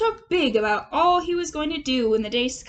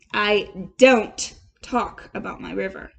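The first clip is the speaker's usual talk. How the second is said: patient; 6 semitones lower, 5 dB louder, slower than usual. A narrator's reading. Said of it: "replied the patient rat".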